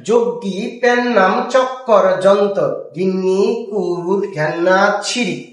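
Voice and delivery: slow, measured reading of a word list; slow recital. Shown as a demonstration. Teacher reading the word list slowly to the class. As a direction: read each word out slowly, like a poem.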